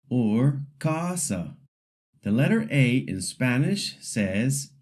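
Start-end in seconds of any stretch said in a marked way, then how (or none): 0.8-1.6 slow casa with English vowels; casa said slowly with slack English vowels; wrong way. Shown as a demonstration. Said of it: "The wrong way would be to say".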